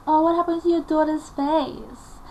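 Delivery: high-pitched imitation of a shocked woman; mother's concerned friend. Friend asks mother about daughter's face, mock concern.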